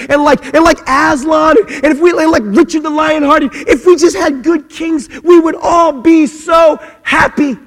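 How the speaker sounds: high, loud, impassioned sermon shouting; fiery preacher climbing to a shout; full-force preaching. Acted. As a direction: preach it, building to a roar.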